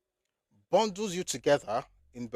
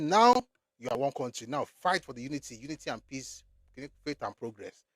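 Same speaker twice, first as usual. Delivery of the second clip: mock colonial decree. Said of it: "They said".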